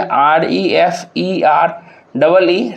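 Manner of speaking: "आर ई एफ ई आर डबल ई" spelled slowly in separate chunks; broken into syllables. Shown as a demonstration. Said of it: "तोड़ते हैं तो क्या तोड़ेंगे". ("आर ई एफ ई आर डबल ई" को धीरे-धीरे टुकड़ों में तोड़कर)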